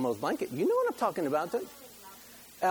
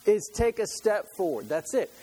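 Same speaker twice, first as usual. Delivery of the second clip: voicing God; 7 semitones higher, 4 dB louder than usual. Preacher voicing God offering the land, emphatic and raised. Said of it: "this is how he says it".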